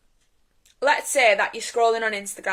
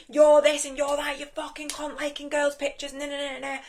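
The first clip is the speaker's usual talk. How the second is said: mock blaming rant; 5 semitones higher than usual. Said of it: "point the finger and blame".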